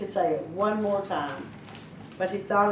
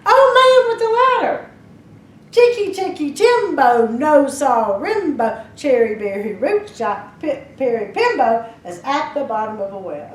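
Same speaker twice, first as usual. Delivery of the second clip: shout; 3 semitones higher, 6 dB louder than usual. Acted. Boy yells with his last breath to the old man, desperate. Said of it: "he shouted".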